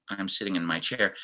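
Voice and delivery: mildly downcast; a little bit down. Shown as a demonstration. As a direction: let it sag a little. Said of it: "It looks like Mike is a little bit down".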